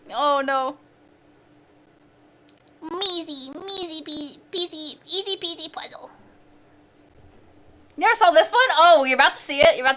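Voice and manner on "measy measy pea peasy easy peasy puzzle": quiet singsong. Real, not acted. Playful rhyming to herself.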